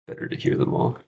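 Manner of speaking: whispered to herself; a breathy note to self, barely voiced; under her breath, reminding herself; whispered aside. Real, not acted.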